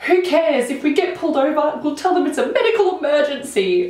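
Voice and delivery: cocky brother. Retold or imitated. Brother Jack's carefree reply quoted.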